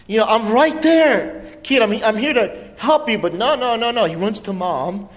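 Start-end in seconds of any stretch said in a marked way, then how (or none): 0.2-3.2 mock pleading dad, drawn-out first words; exasperated dad. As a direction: act out an overlooked father insisting he's here. Pleading with child who runs past.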